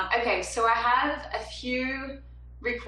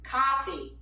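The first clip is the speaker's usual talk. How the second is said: halting, fumbled New Jersey vowels, a little higher; attempted New Jersey accent; 5 semitones higher, slower than usual. Shown as a demonstration. Singer tries New Jersey for a viewer's comment, attempted accent. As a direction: stumble through a New Jersey "sausage" and "coffee". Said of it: "New Jersey sounds like a".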